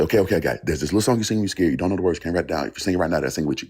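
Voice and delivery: hurried recording the idea into the phone; rushed excited. Retold or imitated. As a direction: blurt it out before it slips away. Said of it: "I grab my phone. I say".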